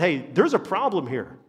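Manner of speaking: slow, drawn-out dismissive sign-off; mock careless critic. Preacher mimics an unhelpful critic, slow and dismissive. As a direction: play the critic who walks away. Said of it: "Somebody's come and said".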